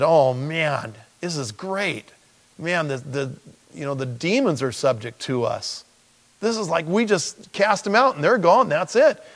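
the disciples bursting with excitement, voice climbing high; retelling the disciples' giddy report of casting out demons; excited disciples. Retold or imitated. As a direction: gush like thrilled followers back from the road.

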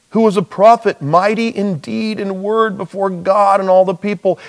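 huffy, puffy exasperated sigh into the words; mildly exasperated retelling; exasperated huff. Pretend. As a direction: sound fed up with the question. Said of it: "exasperated huffy puffy thing".

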